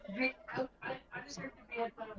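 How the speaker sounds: sounding far from the mic; distant, off-mic voice; through a wall. Real, not acted. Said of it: "Why do you sound so far away?".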